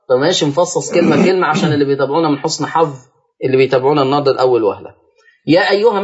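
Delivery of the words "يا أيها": "يا أيها" with the first a held six counts; long madd. Shown as a demonstration. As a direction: stretch the alif of "يا" before "أيها". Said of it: "مد منفصل ست حركات".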